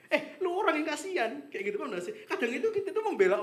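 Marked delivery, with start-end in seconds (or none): 0.1-1.5 high, slow laughing jab; laughing retort. Retold or imitated. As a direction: tease them through a laugh. (ejekan sambil tertawa, pelan dan tinggi)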